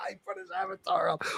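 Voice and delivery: hushed, breathy aside; gleeful stage whisper to the chat. Real, not acted. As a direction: whisper it like a secret. Aside while mocking Tony.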